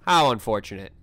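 low, flat deadpan imitation; deadpan robot voice. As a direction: mimic a cold AI voice. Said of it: "has the audacity to say".

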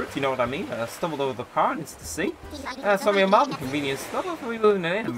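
lively bad Irish brogue for a rambling sailor; awful Irish accent. Castaway pirate waking confused on the beach, awful Irish accent. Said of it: "very awful accent. I'm sorry for any Irish".

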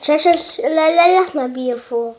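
excited stammer. Real, not acted.

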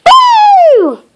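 high, loud spooky boo; very scary voice. Acted. Little Miss Scary jumping out at Mister Surprise with a loud boo. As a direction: jump out and shout boo. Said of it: "at the top of her very scary voice".

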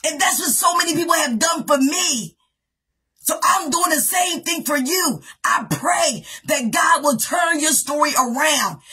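fervent preacher's call, half shouted; a pastor pleading on behalf of the listeners; preaching. Acted. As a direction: stir the church with rising prayer. Preaching prayer to congregation.

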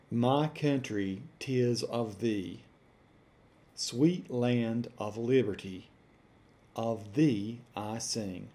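put-on slow, deliberate recitation of the old verse; dictated quote. Shown as a demonstration. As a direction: read the lyric word by word for the mic. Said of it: "Let's try another quoted example".

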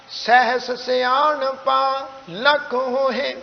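slow, measured Gurbani recitation; scripture recitation. Shown as a demonstration. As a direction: hold the phrase endings on a level tone. Recites the verse through. (Gurbani ਦਾ ਸਹਿਜ ਪਾਠ)

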